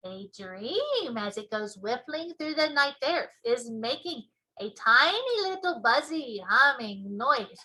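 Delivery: booming friendly giant; big gentle giant explaining; BFG giant voice. Acted.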